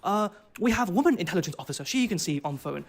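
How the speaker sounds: put-on high, eager Arabic-accented reassurance; Saudi officer accent. Interrogator reassures the detained traveller, high Arabic-accented voice. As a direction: play the officer brushing it off in a thick Saudi accent. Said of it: "he was like".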